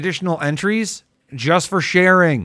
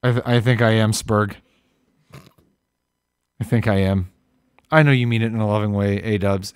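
low, subdued and resigned; mock wounded; 7 semitones lower, 3 dB quieter than usual. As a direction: sulk softly as if hurt, playing it up. Mock wounded surrender to teasing.

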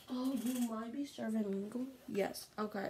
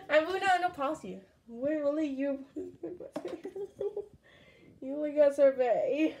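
loud taunt; 3 semitones higher, 7 dB louder than usual. Real, not acted. Taunting other player, loud.

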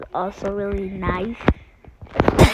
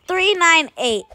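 imitating a boy; 7 semitones higher, 4 dB louder than usual. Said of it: "Just say it like that".

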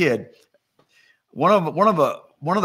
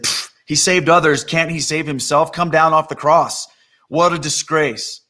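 lightly acted jeering at a fallen king; mocking. Onlookers jeer at Jesus on the cross, mocking. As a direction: scoff with a dismissive puff. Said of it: "They mocked him".

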